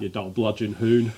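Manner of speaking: hammed-up Aussie insult; Australian accent. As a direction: throw back a mock Australian jibe. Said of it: "Go on, Australian".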